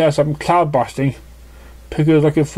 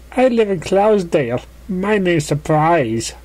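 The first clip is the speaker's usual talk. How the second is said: giddy pegasus voice; 5 semitones higher than usual. Acted. Surprise voiced by narrator.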